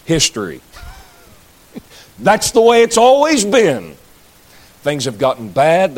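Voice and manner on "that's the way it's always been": laughing. Real, not acted. Laughing at own punchline.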